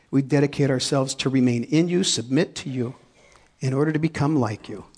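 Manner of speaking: earnest, reverent prayer voice. Acted. Pastor leading the congregation in closing prayer, reverent. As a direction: lead the people in prayer.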